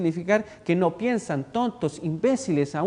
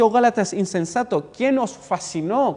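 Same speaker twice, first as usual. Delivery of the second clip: loud, raised exclamation; loud rebuke; 3 semitones higher, 5 dB louder than usual. Acted. Paul scolding the Galatian church, loud. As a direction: call out the Galatians as a stern apostle. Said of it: "Pablo aquí habla fuerte".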